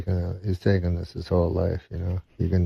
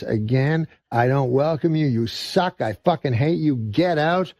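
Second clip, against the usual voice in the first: contained anger rising to higher-pitched outrage; outrage boiling over; 4 semitones higher than usual. Acted. Bookseller throws out the redneck customer, outrage boiling over. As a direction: start level, then let the indignation climb. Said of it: "boils over".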